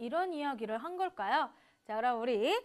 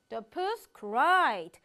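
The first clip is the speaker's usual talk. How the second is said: slow emphatic reading; 2 semitones lower, 6 dB louder, much slower than usual. Shown as a demonstration. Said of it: "follow me".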